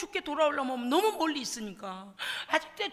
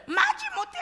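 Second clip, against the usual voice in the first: mock wailing reluctance; 3 dB louder than usual. Preacher mimics reluctant obedience.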